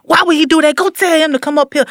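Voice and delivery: mock outrage at the rich man; furious king. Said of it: "David was furious".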